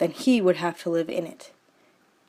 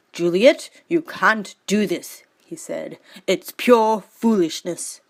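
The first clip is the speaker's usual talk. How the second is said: cousin Tybalt; 4 dB louder than usual. Acted. Tybalt scolds Juliet.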